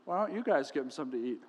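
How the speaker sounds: quick, low, amused, laugh leaking through; Jesus stifling a chuckle as he gives the order; holding back a laugh. Retold or imitated. Jesus teasing his disciples, quick and amused. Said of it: "trying to withhold a laugh".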